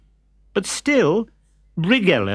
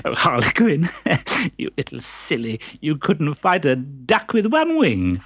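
teasing laughter. Acted. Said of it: "she started giggling".

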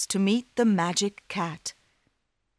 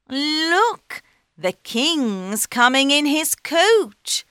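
excited cat; 8 semitones higher, 5 dB louder, slower than usual. Acted. Cat points out king.

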